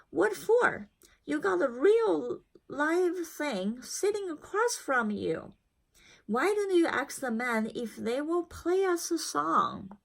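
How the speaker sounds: hint of a lively old grandmother; Nana. Nana's voice in the story.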